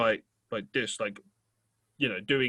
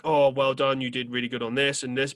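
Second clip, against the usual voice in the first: praise like a telling-off. Retold or imitated. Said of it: "as though I was being told off".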